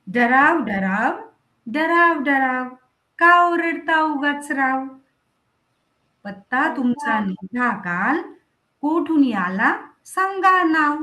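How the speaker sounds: put-on slow, measured recital of a children's poem; poem recitation. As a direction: read the verse out to the class, line by line.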